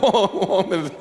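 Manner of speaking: breaking into laughter on the words; laughing. Real, not acted. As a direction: laugh through your own joke. Chuckles at own joke about Satan.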